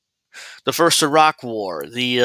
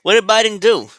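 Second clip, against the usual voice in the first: much higher, louder, slow scoffing; sarcastic disbelief; 9 semitones higher, 6 dB louder than usual. Real, not acted. Scoffing at the clip's Biden boast, loud and sarcastic. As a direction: drag out a mocking really.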